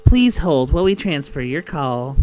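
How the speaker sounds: loud slow phone recording; automated hold message. Shown as a demonstration. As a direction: announce it like a phone system. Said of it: "instead of doing the demonic voice".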